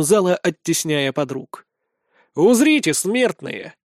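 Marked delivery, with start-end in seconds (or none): 2.3-3.7 grand proclamation. A narrator's reading. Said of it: "Выдаю и начинаю вытанцовывать".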